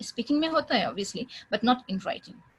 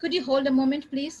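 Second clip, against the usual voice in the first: polite hold request; 3 semitones higher, 3 dB louder, much slower than usual. Shown as a demonstration.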